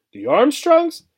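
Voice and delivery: stunned disbelief in the rise; aghast. A narrator's reading. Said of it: "said Obie aghast".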